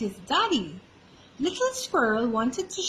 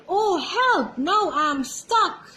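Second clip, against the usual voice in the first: mock panic; 6 semitones higher, 4 dB louder, slower than usual. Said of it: "Daddy was like".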